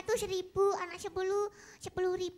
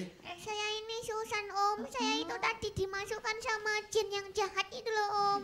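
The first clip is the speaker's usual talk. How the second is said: put-on child puppet voice. Ventriloquist puppet voice throughout.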